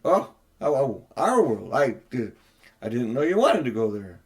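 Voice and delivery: flustered stammer, repeating the oh. Acted. Diggory stammering to the queen, flustered. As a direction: caught out and tripping over words.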